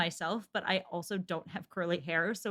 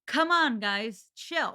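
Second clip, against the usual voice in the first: quoting Mel's line; 3 semitones higher, 4 dB louder, much slower than usual. Retold or imitated. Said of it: "do you know this line?".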